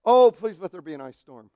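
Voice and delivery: loud mock-desperate wish; mock plea. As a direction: beg the sky, hammed-up. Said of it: "I wake up first thing in the morning and I think".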